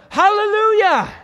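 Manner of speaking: high, slow ringing shout of praise; full-voiced preacher's cry; shouted hallelujah. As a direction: lift it to the rafters. Voicing the heavenly crowd.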